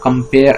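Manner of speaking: "compare" as one separate foot, second syllable stressed; metrical foot. Shown as a demonstration. Teacher counting five feet for students, separated iambic chunk. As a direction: mark off "compare" as a counted unit. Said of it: "সেই পাঁচটা দলে ভাগ হয়ে যাচ্ছে".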